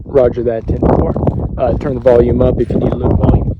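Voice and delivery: radio-operator delivery; radio talk. Real, not acted. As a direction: speak up into the handset. Answering on the radio.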